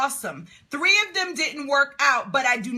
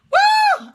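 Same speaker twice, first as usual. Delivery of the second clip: high, loud woo; excited whoop; 7 dB louder than usual. Real, not acted. Coach says she is on fire, excited whoop. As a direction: let out a piercing happy whoop.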